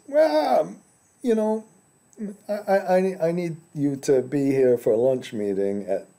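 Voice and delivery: high, airy impression of a busy boss; Jeff Bezos on the phone. Tycoon on the phone demanding a lunch meeting, lightly mocking. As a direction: summon someone to lunch like a tycoon. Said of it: "calls you on the telephone and says".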